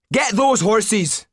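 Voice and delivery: high, slow crowd call; cry from the crowd. Acted. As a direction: yell it from the mob. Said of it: "came a cry from the crowd".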